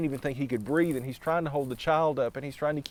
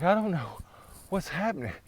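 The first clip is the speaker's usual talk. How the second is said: bewildered; 6 semitones higher than usual. Acted. Exhausted man after the crossing.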